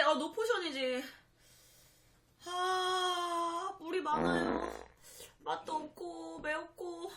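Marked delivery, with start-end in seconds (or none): 2.4-7.1 pained, teary spice-burned voice; talking through a burning tongue; mouth burning from spicy food. Real, not acted. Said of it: "매워 죽겠다". (매워서 울먹이며 입이 타는 소리)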